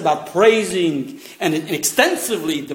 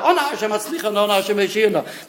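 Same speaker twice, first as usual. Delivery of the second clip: imitated calling out. Teacher showing what worshippers call out, excited. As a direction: mimic the crowd's eager plea without full volume. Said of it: "There we yell out".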